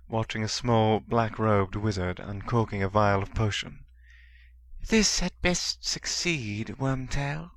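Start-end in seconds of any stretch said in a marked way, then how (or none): 4.9-7.5 menacing dark lord. A narrator's reading.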